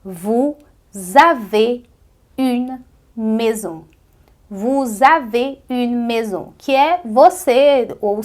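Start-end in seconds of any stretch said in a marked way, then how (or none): 0.0-3.9 vous avez une maison, slow and careful French; French pronunciation demo. Shown as a demonstration. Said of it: "eu tenho que dizer". 4.5-6.5 Vous avez une maison, said slowly and clearly; French demo. Shown as a demonstration. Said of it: "eu tenho que dizer".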